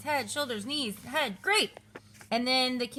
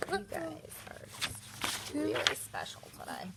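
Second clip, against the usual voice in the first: exasperated whisper; 5 semitones higher, 9 dB quieter than usual. Real, not acted.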